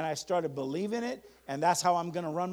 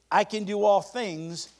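slow, emphatic call for repetition; measured preacher's affirmation; leading a declaration; 3 semitones higher, 4 dB louder, slower than usual. Acted. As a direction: declare it phrase by phrase for the congregation. Leads a congregation in declarations.

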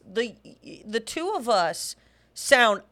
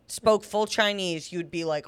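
normal talking voice

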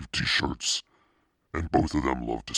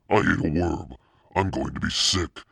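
high, louder sickened groan; 4 semitones higher, 4 dB louder than usual. Acted. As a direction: gag on the words, close to sick. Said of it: "Carly Beth groaned".

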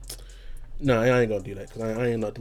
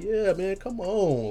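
frat bro; 8 semitones higher, slower than usual. Retold or imitated. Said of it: "I'm like".

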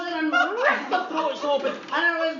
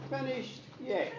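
granny's flat reply; 6 dB quieter than usual. Retold or imitated. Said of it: "My Gran said".

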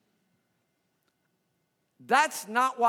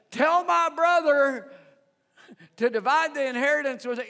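rude interrupter; 4 semitones higher, 4 dB louder than usual. Acted. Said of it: "interrupts Jesus' preaching and says".

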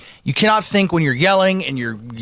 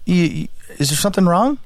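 mild, calm, polite question; a touch of calm reassurance. Retold or imitated. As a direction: ask it gently, no edge at all. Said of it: "That's how I kinda say it like that".

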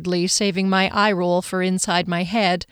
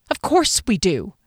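snarky tone. Acted. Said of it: "She said it with a tone".

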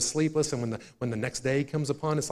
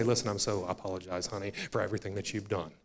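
mock apology; 4 semitones lower, 7 dB quieter, faster than usual. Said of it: "I have to go to her and say".

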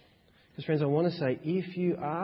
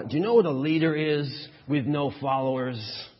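put-on American vice president accent; 3 dB louder than usual. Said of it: "in a kind of important American vice presidential accent".

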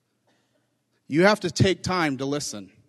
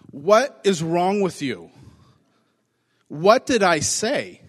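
exasperated rebuke; slower than usual. Retold or imitated. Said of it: "this is my paraphrase".

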